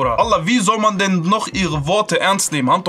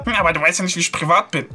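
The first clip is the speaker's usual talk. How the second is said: mocking whiny quote; 4 semitones lower, faster than usual. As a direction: put on a sneering voice to ridicule her excuse. Mocking the other woman's excuse.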